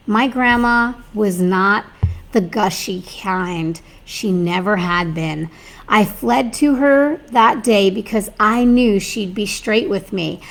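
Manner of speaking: steady, measured storytelling read; story reading. Acted. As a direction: read the tale to your audience. Reads a story aloud.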